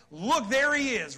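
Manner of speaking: calling out Look, there he is; pointing call. Retold or imitated. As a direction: point him out to the crowd, slowly. Quoting John pointing to Jesus.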